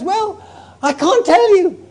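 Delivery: mother straining to keep the miracle secret; bursting mother. Acted. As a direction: hold back a secret you can barely keep. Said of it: "And she says".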